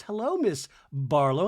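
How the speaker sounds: returned greeting, brisker, with playful lilt; Heather. Retold or imitated. Heather answering costumed Meredith, brisker playful greeting. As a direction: greet her back in a lightly mimicked voice. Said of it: "And Heather goes".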